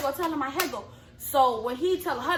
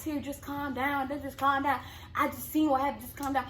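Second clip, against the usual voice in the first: soft, hushed soothing of an upset friend; imitated calming; 6 dB quieter than usual. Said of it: "trying to calm me down".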